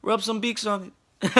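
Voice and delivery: put-on high Filipino accent, matter-of-fact; Filipino grandma accent. Filipino grandma prescribing Vicks, high Filipino accent. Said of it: "She said".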